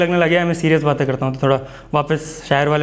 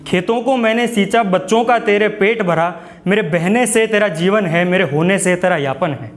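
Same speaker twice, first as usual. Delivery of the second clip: nature scolding mankind; 3 semitones higher, slower than usual. Acted. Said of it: "थोड़ा तेज़ तेज़ पढ़ूंगा इसको मैं".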